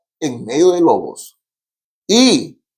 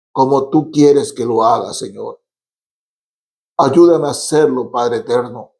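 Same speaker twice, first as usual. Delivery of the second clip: earnest prayer. Acted. Leads a model prayer.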